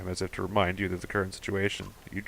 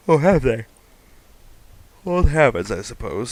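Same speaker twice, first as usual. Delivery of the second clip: animated line reading; 5 semitones higher, 8 dB louder than usual. Acted. Reading dialogue in character.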